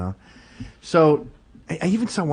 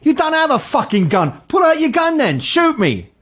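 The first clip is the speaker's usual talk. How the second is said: much higher and louder shouted challenge; imitated furious dare; 4 dB louder than usual. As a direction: yell the dare right in his face. Friend daring the gunman.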